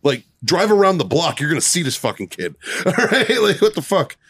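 retold incredulous rant; exasperated protest. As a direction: argue the obvious with a useless cop. Retold exasperated argument with cop.

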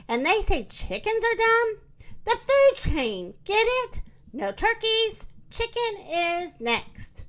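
high-pitched rooster, spelling it out; high storybook rooster voice; exasperated rooster. A narrator's reading. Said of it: "said the rooster".

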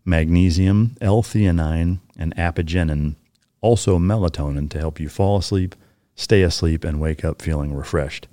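measured sponsor read, even and deliberate. Acted. Host pitches sleep powder to listeners, ad read. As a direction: read out the offer, spacing the code slowly.

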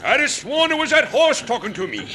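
light mimicry of the wagon driver; mimicking the driver. Shown as a demonstration. Ex-convict parroting the astonished driver, imitating his voice. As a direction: echo him in his own excited, drawling manner. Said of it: "Who's that sound like?".

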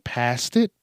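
"past it" with IT popped upward; odd emphasis. Real, not acted. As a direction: kick the pitch up on "it" in "past it". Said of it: "why I said it like that".

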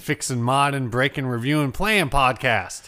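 lazy country twang; country accent. Real, not acted. Podcast host introducing the guitar show, light country accent. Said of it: "Did I do a country accent".

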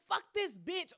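high, loud angry cuss; mock cussing. Cussing at the cousin in front of grandma, high loud. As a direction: spit it out at your cousin. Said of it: "I'm like".

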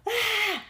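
high, loud fed-up cry; sudden annoyed outburst; exasperated yell. Retold or imitated. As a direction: let out a frustrated shout. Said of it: "you wanna say this".

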